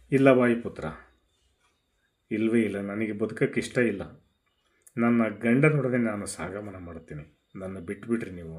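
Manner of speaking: grieving widow, fading to a hush; Tara in despair. Acted. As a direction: let the voice sink as she gives up on life. Tara refuses to live.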